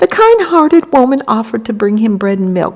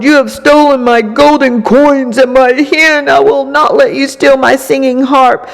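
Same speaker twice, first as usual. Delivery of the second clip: giant roaring; 4 semitones higher, 3 dB louder than usual. Acted. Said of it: "The angry giant jumped up and he roared".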